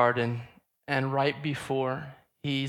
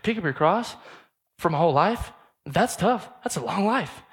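mock complaint; 4 semitones higher, 4 dB louder than usual. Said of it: "it's like".

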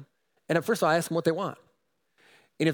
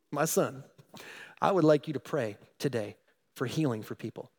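gentle but firm; 2 semitones lower than usual. Retold or imitated. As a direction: speak kindly but leave no room to refuse. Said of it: "gently but firmly".

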